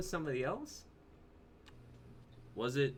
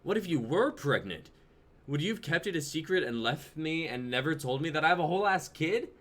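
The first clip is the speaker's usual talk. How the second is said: louder, accusing questions; heated; 3 semitones higher, 4 dB louder than usual. Acted. Jonah accusing her of secrecy, heated. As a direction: push her, rising anger.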